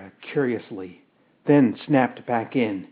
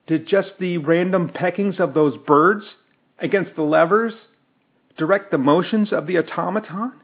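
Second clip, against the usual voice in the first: a touch higher and louder, hurried; frightened and angry; 5 semitones higher, 3 dB louder, faster than usual. Acted. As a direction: press the question fast, alarmed and cross. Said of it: "frightened and angry".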